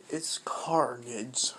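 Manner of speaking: slow whispered monster voice; creepy whisper. Retold or imitated. Carnage pops out of Deku's shoulder, slow whispered reveal. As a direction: hiss the name out slowly.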